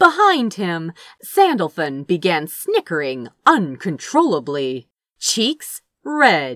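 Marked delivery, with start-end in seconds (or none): none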